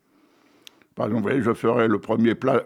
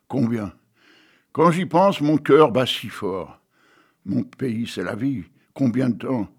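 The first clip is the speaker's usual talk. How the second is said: slow, dramatic poem reading with big swells; poem recital; slower than usual. Acted. Reciting Jean-Loup Dabadi's poem to the audience, dramatic poem voice. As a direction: recite the poem with feeling, rising and falling.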